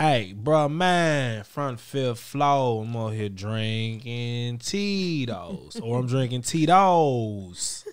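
slow laid-back bruh man impression; a hint of cool neighbor. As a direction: lean back and drawl it out. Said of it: "I'ma talk like bruh man".

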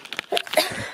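short dry cough. Real, not acted. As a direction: cough once, breathless. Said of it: "so out of breath".

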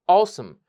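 "অসাম" as a short "AW-sum"; correct pronunciation. Shown as a demonstration. Teacher gives the right form, "অসাম" as "AW-sum". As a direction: reduce the end of "অসাম" to "sum". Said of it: "তাহলে কি বলবো?".

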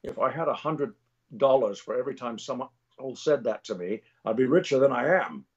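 lightly voiced Scottish film star; a hint of a weary Scot's cadence; Sean Connery. Sean Connery tired of the same old joke, wry impression. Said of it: "He goes".

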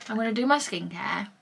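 muffled, teeth strips still on; with whitening strips. Real, not acted. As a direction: say it round the strips. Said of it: "so I can't really talk".

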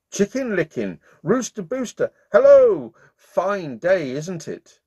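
high, bright hello from a carefree duck; cheery duck. Acted. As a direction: call out a sunny greeting. Duck greets the chickens.

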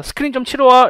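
high, loud, eager neighbourly invitation; inviting resident. Acted. Resident invites a friend over for screen golf, high eager boast. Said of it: "이렇게 얘기하는 거".

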